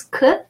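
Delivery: isolated "K", the hard C; hard C sound. Shown as a demonstration. Teacher explaining first C to learners, "K" as an isolated hard sound. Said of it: "The first one is".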